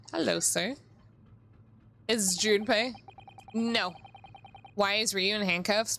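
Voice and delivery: ordinary delivery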